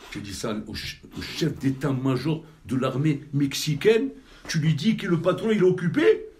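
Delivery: scandalized, the voice climbing to a yell; outraged disbelief. Acted. Man outraged that the boss is busy, indignant yell. Outraged retelling of boss's refusal.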